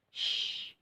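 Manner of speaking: urgent hushing; shushing. Acted. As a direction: hush them quickly. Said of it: "said Joe".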